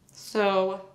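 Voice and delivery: talking while chewing cake; mouth full. Real, not acted. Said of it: "I can't talk with my mouth full".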